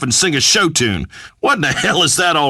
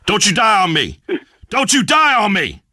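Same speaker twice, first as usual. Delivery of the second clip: hammed-up movie-hero plea, rising higher; mock dramatic plea; 5 semitones higher than usual. Host to a weeping caller, hammed-up dramatic pleading. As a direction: beg him like a dying buddy in an action film.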